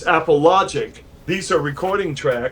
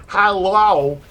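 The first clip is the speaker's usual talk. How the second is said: Hello pitched higher and louder; raised hello; 5 semitones higher, 4 dB louder than usual. Shown as a demonstration. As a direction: lift the Hello up high and louder.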